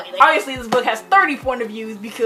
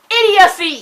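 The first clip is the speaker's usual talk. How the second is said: loud exclamation; 7 semitones higher, 6 dB louder, slower than usual. Real, not acted. Exclaiming at character's plan.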